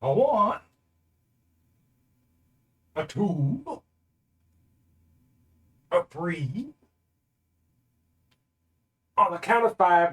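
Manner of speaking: strained cowboy count, high and soft; silly cowboy. Pretend. Streamer counting push-ups, silly high cowboy voice. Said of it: "You want a silly cowboy voice".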